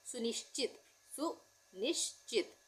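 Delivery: सुनिश्चित spelled out slowly, each syllable clear; drawn-out सुनिश्चित for dictation; slow syllable-by-syllable demo. Shown as a demonstration. Teacher dictating a Hindi word to students, slow and clear. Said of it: "हम सुनिश्चित में".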